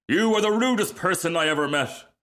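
high, indignant retort; offended rocket. Acted. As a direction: hit back, deeply affronted. Rocket insulted.

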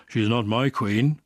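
put-on slow, sulky teenage refusal; sullen. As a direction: say it like a defiant, sulking teen. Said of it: "saying sullenly".

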